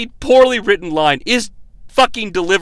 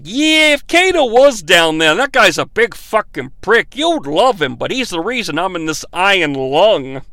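put-on Bronx accent. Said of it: "Peter Griffin's cousin from the Bronx".

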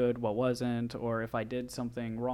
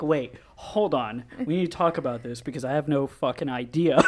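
slow mock alarm; 4 dB louder than usual. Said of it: "I was just like".

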